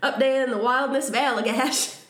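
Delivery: put-on story told in a light Maine accent. Narrating the camping story in a mild Maine accent. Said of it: "I feel like I need to say this all in my Maine accent".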